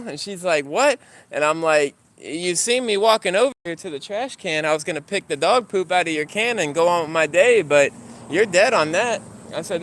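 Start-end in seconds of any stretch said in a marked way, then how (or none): 0.6-1.0 high-pitched, taken-aback "what?"; retold indignant what. Retold argument with neighbour. 2.2-9.2 higher-pitched, argumentative retelling; retold indignant protest.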